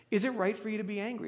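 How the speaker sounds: it said lightly and quickly, no edge; neutral question. Shown as a demonstration. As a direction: ask it plainly, without accusation. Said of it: "It's a pretty neutral question".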